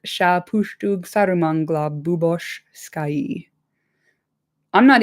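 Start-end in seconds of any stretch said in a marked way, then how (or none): 0.1-3.5 slow, harsh orcish chant; deliberately ugly Black Speech, slowly. Acted. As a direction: grind out each foreign syllable slowly. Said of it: "It's supposed to sound bad".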